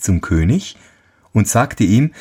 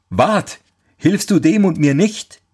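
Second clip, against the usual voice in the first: character voice; 9 semitones higher than usual. Acted. False Ferdinand asks girl.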